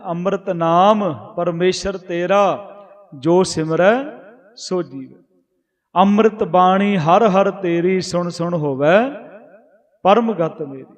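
slow scripture recitation. Acted. Preacher reciting gurbani verse to the congregation, slow and reverent. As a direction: chant the verse slowly, each phrase drawn out.

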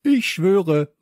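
high, loud pledge; called-out vow. A narrator's reading. Two boys taking the pirate oath, loud called-out vow. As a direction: swear it out eagerly. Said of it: "riefen Leo und Samson".

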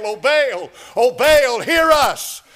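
high, loud pleading wail; crying out to Baal. Retold or imitated. Preacher mimics Baal's prophets, loud pleading wail. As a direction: wail it up to an idol that won't answer. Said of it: "the prophets of Baal cried out to Baal".

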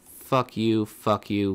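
loud repeated curse at the screen; angry cursing. Real, not acted. Fed-up player cursing the game out loud, angry. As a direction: hurl it at the game.

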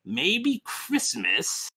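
slow, soft dawning thought; lightly voiced Grinch, wondering slowly; pondering Grinch. Grinch puzzling over Christmas, slow pondering voice.

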